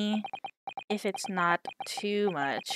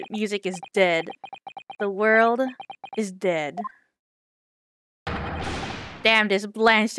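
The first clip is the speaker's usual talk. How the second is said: miserable. Acted. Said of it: "You look miserable".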